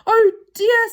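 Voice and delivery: high, loud exclamation of dismay. Acted. Silky hears Saucepan was thought a thief, dismayed. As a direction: exclaim in high-pitched alarm.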